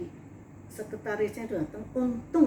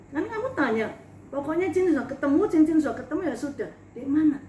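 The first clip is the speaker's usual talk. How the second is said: scolding; 2 semitones higher, 4 dB louder, faster than usual. Retold or imitated. Scolding friend for doubting.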